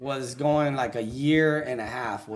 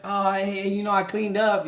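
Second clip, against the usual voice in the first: pretend-normal, pitched-up small talk; faking cheerful; 5 semitones higher than usual. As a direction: play it off as if nothing happened. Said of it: "like you weren't crying all day".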